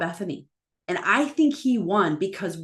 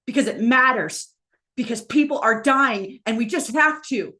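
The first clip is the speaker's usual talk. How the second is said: retold tearful plea; 5 semitones higher, 5 dB louder than usual. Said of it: "he's crying".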